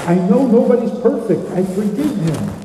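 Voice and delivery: imitating an anxious wife, pitch lifted; retold tearful distress. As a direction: act out her pleading worry, without real sobbing. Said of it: "and she's crying".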